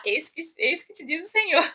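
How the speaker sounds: lightly hammed solemn proclamation; a hint of a grand prophet; mock prophet voice. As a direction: play a pompous prophet announcing God's word. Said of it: "com a voz de profeta".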